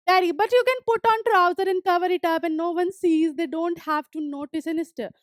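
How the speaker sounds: reading the story text slowly, word by word; slow reading aloud. Acted. Teacher reading the story aloud to students, slow and clear. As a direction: read each English line slowly and clearly for the class.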